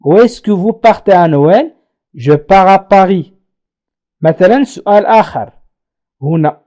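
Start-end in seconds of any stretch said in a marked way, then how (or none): 0.0-3.3 slow, clear question then answer. Shown as a demonstration. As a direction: model the exchange slowly. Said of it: "وأجيب". (سؤال وجواب ببطء)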